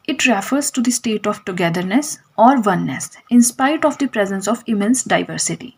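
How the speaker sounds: very slow, word by word for notes; slow dictation. Shown as a demonstration. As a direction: spell it out slowly so students can write. Teacher dictating English definition.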